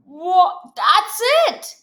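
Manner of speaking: loud "what? that's it!"; light up with the idea; sudden idea. Acted. Idea strikes.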